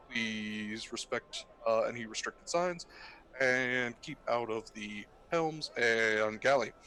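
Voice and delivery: slow intercom announcement; captain on the PA, unhurried; pilot cockpit headset. Acted. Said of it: "the voice comes over and goes".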